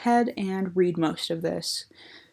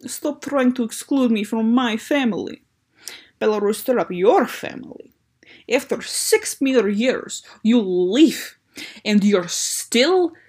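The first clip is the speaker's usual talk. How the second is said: hammed-up angry Belarus; 3 semitones higher, 5 dB louder than usual. Reading Belarus's angry dialogue.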